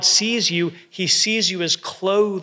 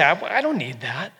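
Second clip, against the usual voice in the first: little daughter's voice. Retold or imitated. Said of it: "She would say".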